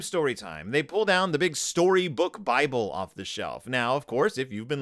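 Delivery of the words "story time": lower, softer echo of the chant. Retold or imitated. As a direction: drop it down as the answering echo. Cubs demand a bedtime story.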